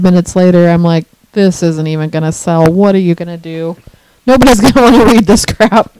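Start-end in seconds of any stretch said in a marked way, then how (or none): 1.3-5.9 mock despair. Acting out self-doubt minutes later.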